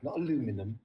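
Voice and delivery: "aluminum" said a-LOO-mi-num, four syllables; American aluminum. Shown as a demonstration. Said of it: "I'd like to correct one thing".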